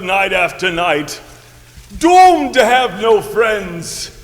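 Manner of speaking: lightly raspy moaning ghost; hammed-up doomed spirit wail; weird ghost voice. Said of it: "Doomed to talk in this weird voice".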